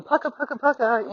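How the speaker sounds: rhythmic pucka pucka hoofbeats; hoofbeat sound. Retold or imitated. Trainer imitating the saddle gait's hoofbeats, rhythmic. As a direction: chant the four-beat gait sound. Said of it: "people are going".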